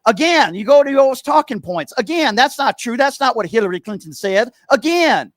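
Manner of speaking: Steven caller voice. Acted. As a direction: sneer every again like a talking-point parrot. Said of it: "I'm gonna be Steven for a few moments".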